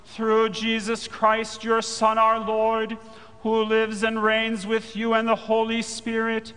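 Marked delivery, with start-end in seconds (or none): none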